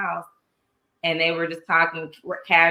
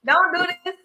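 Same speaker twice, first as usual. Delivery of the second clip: pleading protest; 8 semitones higher than usual. Retold or imitated. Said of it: "I'm like".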